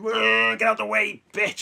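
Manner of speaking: high, loud mock yell from a car; hammed-up road rage shout; angry driver yelling. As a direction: bark at the car in front like a road-rager. Angry driver behind him honking.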